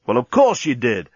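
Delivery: mildly testy retort; a bit short-tempered. A narrator's reading. Dan correcting the captain, a bit short-tempered. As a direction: let slight impatience show. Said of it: "getting a bit short-tempered".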